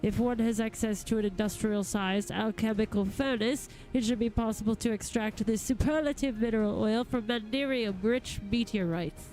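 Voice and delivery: lightly voiced courtly gentleman, eloquent and eager; a hint of a grand lord addressing helpers; formal gentleman goldsmith. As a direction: read it as a formal, well-spoken master craftsman. Reads a game figure's dialogue.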